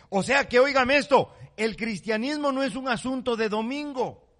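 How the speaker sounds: loud, high, forceful preaching; preaching shout. Real, not acted. Preacher shouting to his congregation, forceful and high. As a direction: drive the point home to the church.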